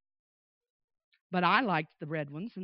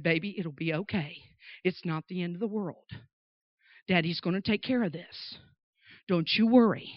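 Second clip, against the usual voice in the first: lightly voiced, lower comforting father; reassuring dad; 5 semitones lower than usual. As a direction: soothe a crying child, understated. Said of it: "trying to compose me".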